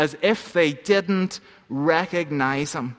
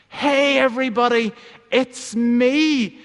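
higher, louder call to the crowd; 7 semitones higher, 3 dB louder than usual. Acted. Little donkey calls out to the crowd, higher and louder. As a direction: hail the whole market eagerly. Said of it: "Jacob called out".

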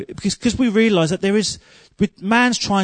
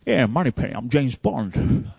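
James Bond impression; 4 semitones lower than usual. Preacher copying Bond to Moneypenny, low and suave. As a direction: purr it like a smooth secret agent. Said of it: "trying to copy him".

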